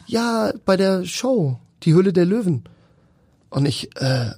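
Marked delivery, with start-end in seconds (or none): 0.0-2.6 imitating the caller. Caller invites him onto the show.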